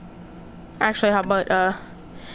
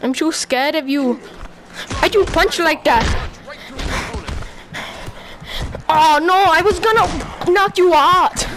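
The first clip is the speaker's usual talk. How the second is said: raised, hammed-up Soviet Russian fighter voice; put-on Soviet Russian voice. Gamer taunting his boxing opponent as a Soviet Russian, mock Russian voice. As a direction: play a trash-talking fighter in a mock Russian accent.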